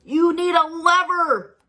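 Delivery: high, slow put-on voice; calm advisor. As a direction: state it plainly as the wise one. New voice.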